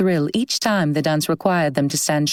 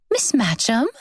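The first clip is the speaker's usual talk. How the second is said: high, bright call of delighted surprise; excited surprise; 5 semitones higher than usual. A narrator's reading. Young woman spotting an old friend at a ball, excited call. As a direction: call out her name, thrilled to spot her. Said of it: "full of excitement and surprise".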